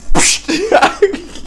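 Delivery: cackling at the slap replay; high cackling laugh. Real, not acted.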